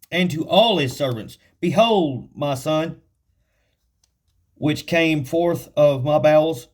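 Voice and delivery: slow, solemn King James reading; scripture reading. Acted. Preacher reading David's words to the congregation, solemn. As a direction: read the verse out with weight.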